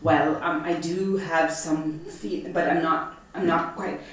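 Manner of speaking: stumbling over every word; nervous, can't get it out; tongue-tied girl asked if she's a lesbian; flustered stammer. Retold or imitated. Flustered teen self stammers.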